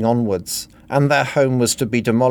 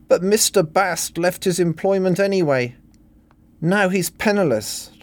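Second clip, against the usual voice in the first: mock sobbing; 9 semitones higher than usual. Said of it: "Helen sobbed".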